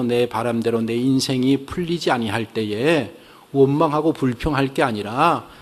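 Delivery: usual speaking voice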